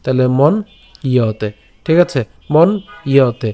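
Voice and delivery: মন ইয়তে slowly with a y glide; careful pronunciation. Shown as a demonstration. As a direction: say মন ইয়তে as mon-iyote. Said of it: "ইয়র মতো হবে".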